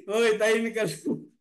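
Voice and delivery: retelling the whisper while still laughing; a hint of the hushed lion, mostly laughter; lion line through giggles. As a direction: try to voice the lion but keep cracking up. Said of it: "Sabi ng lion".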